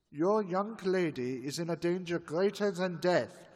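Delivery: building to a loud, forceful plea; insistent warning that keeps rising; urgent warning. Acted. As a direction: press the danger harder with each line. Professor urgently warns the fiancé.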